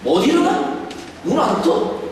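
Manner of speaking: God scolding Elijah in a high, harsh voice. Pretend. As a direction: bark it like a harsh master. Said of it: "이렇게 윽박 지르지 않았습니다".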